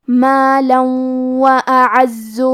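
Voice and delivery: مالا و اعز slowly, with the tanween merged into the waw; idgham demo. Shown as a demonstration. Teacher models the idgham, slow chant. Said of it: "غنہ اور تشدید کے ساتھ".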